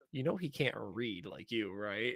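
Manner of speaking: slow, soft, deadpan aside; dry slow reminder. Retold or imitated. Wife deadpans to the Tanuki about the cat, slow and soft. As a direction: gently point out the obvious. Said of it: "And she just goes".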